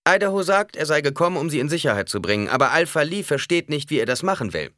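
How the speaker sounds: put-on loud, high, hurried young Fremen; urgent young warrior. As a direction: push it out fast and tense.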